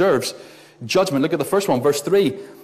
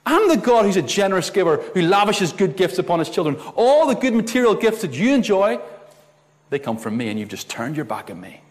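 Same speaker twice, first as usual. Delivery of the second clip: preacher voicing God's reproach; 5 semitones higher than usual. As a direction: speak as a generous, hurt God. But what God says is this.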